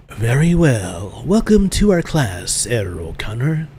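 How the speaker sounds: put-on slow, drawn-out German-accented welcome. Schoolmaster greeting a new pupil, in a slow German accent. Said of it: "should be a German accent".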